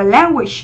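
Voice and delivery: "language" with an open æ in the first syllable; flat e vowel. Shown as a demonstration. Teacher giving option D to students, "language" with a flat e. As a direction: say "language" starting with the vowel of "cat". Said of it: "Như vậy là âm e bẹt".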